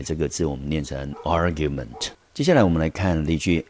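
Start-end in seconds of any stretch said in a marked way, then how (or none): 1.2-2.1 "argument" with the stress on AR; stress on first syllable. Shown as a demonstration. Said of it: "重音节落在第一个音节". (示范argument，重音放在第一音节)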